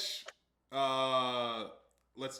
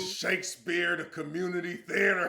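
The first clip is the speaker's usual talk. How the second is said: louder, higher, laughing through the line; laughing mock JBL; 5 semitones higher, 8 dB louder than usual. Cohost retelling JBL's putdown, laughing impression. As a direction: deliver the burn while cracking up.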